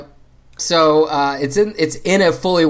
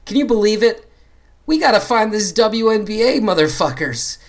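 worked-up spy boss; 8 semitones higher than usual. Acted. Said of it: "So he says, he says".

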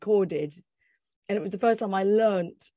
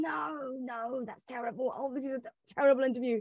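much softer, dismayed self-talk; panicked inner voice; 3 semitones higher, 6 dB quieter than usual. Retold or imitated. Thinking mid-interview the questions are terrible, soft dismay. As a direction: mutter in quiet horror to yourself.

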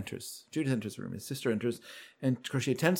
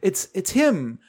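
higher-pitched, protesting imitation; defending himself; 6 semitones higher, 4 dB louder than usual. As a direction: plead innocence in a retold protest. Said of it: "of course, defending himself".

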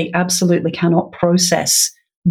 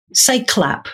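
teacher prompt; 5 semitones higher than usual. Shown as a demonstration. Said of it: "if I said to you".

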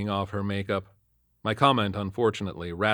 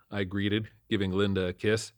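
plain reading voice

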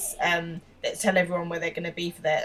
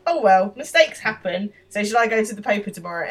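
mock-patronising, a little louder, quick at the end; 3 semitones higher, 5 dB louder than usual. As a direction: lightly act out a condescending schoolboy. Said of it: "in a very patronising tone".

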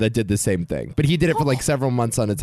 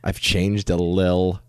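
sexy voice; 4 semitones lower than usual. Pretend. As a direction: read it like a seductive come-on. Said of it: "start reading in your sexy voice".

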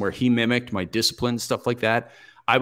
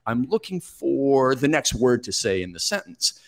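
elongated words; 3 semitones higher than usual. Shown as a demonstration. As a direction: stretch each word out instead of saying uh. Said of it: "learned how to elongate my words".

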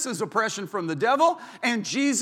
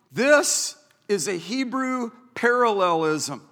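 ordinary talk, nothing marked

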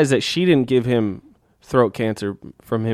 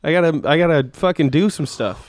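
panicked Santa; 6 semitones higher than usual. Retold or imitated. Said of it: "and then he's like".

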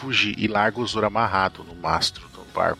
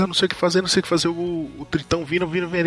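mock panic; 7 semitones higher, faster than usual. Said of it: "o Zop fica desesperado".

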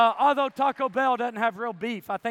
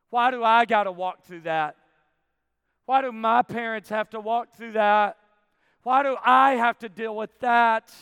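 louder, insistent questioning; aggrieved complaint; 6 dB louder than usual. Retold or imitated. Believer questioning God about hardship, aggrieved. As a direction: demand an answer, hitting it hard.

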